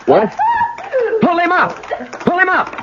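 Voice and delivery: high, urgent shout to pull him up; calling out. Acted. Rider shouting to the bolting horse, urgent high call. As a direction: yell over a runaway horse.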